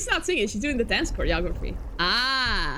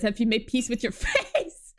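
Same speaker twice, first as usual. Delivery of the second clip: laughing misread. Shown as a demonstration. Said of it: "I misread that as Barbed Head".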